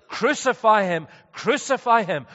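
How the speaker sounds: loud, high imitation of a mob; retold crowd shout. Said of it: "they were shouting out".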